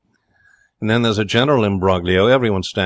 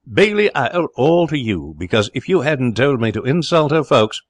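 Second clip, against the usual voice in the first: grateful excitement; 6 semitones higher than usual. Acted. Grateful Jerry to Gentleman.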